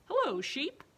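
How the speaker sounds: high, loud chirpy duck voice; bright, loud duck hello; cheery duck greeting. Acted. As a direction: greet the cow like an excited little duck.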